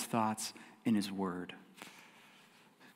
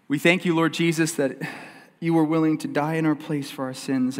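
earnest spoken prayer to Jesus; closing prayer. Acted. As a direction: pray sincerely over the listeners.

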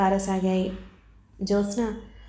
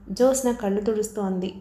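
plain reading voice

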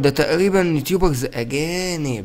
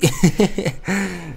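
laugh; 3 semitones higher than usual. Real, not acted. Laughs at his old man act.

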